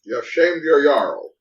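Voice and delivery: Jarl voice. Acted. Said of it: "Stop this fucking voice".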